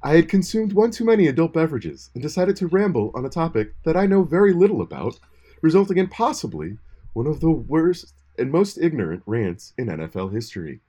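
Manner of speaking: mock solemn public apology; hammed-up sincere apology; fake apology. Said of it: "N P R serious tone".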